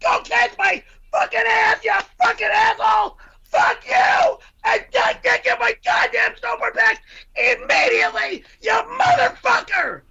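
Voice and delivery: long raging tirade; furious shout. Acted. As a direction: keep screaming curses at him. Furious tirade about skis.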